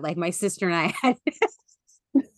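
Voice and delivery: broken up by real laughter; slow down as laughter takes over the words; laughing hard. Real, not acted. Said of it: "why I am laughing so hard".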